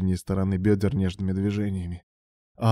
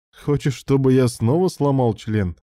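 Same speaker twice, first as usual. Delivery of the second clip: raised, growling challenge; growled; 5 semitones higher, 4 dB louder than usual. A narrator's reading. Ilya warns his impatient lover, growling. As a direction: growl the question at him. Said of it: "прорычал Илья".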